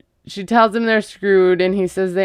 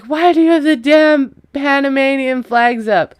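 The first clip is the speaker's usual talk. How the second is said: higher, whiny childish mock scream; recapping Jasmine's meltdown at Gino, mock childish tantrum; mock toddler tantrum; 6 semitones higher, 3 dB louder than usual. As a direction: whine it like a four-year-old throwing a fit. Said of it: "she screams like a four-year-old".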